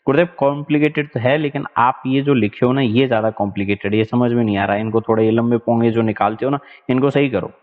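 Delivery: a hint of a cheeky student, fast; mock student grumbling quickly; complaining student. Teacher voices a student complaining about his long sentences, fast grumble.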